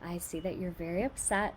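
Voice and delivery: put-on soft, tender reassurance to a crying child; gentle comforting. Shown as a demonstration. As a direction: comfort a hurt child softly. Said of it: "These are really good phrases to say".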